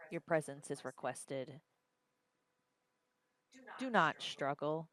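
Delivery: flat robot voice, no inflection; robotic monotone. Acted. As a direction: speak like a cold machine. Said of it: "very almost robotic kind of monotone voice".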